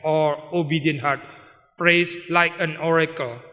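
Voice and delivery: slow, weighty English quotation; preacher reads Spurgeon to the congregation, slow and weighty; quoting Spurgeon slowly. Retold or imitated. A lightly voiced Spurgeon quote, slow and solemn. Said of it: "dia bilang".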